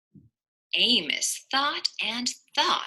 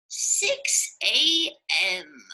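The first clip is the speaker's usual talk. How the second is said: slow, whispered; whispered reply; much slower than usual. Acted. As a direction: breathe it out slowly. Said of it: "he'd reply".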